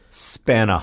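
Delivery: British "Spanna" with no final r; British accent. Shown as a demonstration. Podcaster showing how it rhymes with banana, British accent. Non-rhotic pronunciation to make the rhyme.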